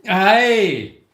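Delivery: a loud, high Scottish "Hey!"; Billy Connolly impression. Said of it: "Oh, my Billy Connolly".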